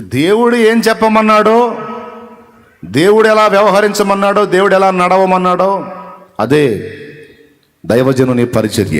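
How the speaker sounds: loud, high, climbing proclamation; fervent shout of faith; full-force preaching. Acted. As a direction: preach it out to the whole hall, building. Preacher's climax on ministry.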